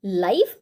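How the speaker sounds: live said as "lai", long i like in alive; the broadcast word live, said "lyve"; pronounced live. Shown as a demonstration. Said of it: "pronunciation पे ध्यान दीजिए".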